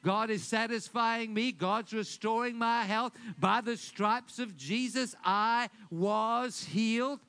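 bold declaration. Shown as a demonstration. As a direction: proclaim it with conviction. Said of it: "start declaring".

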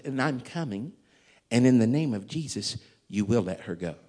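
calm, firm command; real peaceful. Retold or imitated. Pastor ordering the devil out, calm and unshouted. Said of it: "I said it real peacefully".

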